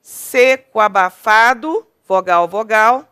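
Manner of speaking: slow, loud, syllable-by-syllable scansion; teacher scanning the verse aloud to count syllables. Shown as a demonstration. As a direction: pull the syllables apart and join vowels. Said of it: "De novo".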